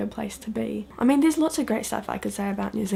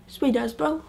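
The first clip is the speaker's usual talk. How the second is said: higher, sweet rising lazily into bro; mock Kiwi slang; 5 semitones higher than usual. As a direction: toss it off like a cheeky local. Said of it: "It goes something like this".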